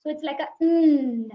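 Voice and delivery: a firm nasal n in "like a n."; nasal n demo. Shown as a demonstration. Teacher demonstrating the n sound. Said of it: "touch my tongue in the upper teeth ridge".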